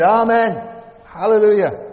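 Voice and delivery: very high, loud exclamation; crying out. Acted. Preacher voicing the elders crying praise, loud and high. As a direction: cry it out with full joy. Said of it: "they cried".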